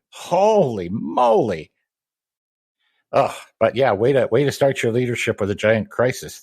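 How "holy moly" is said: holy moly. Real, not acted. Reacting to grim backstory.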